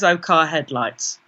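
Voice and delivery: matter-of-fact inner thought. Retold or imitated. Her head explains away the orange glow, matter-of-fact thought. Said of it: "my head just says".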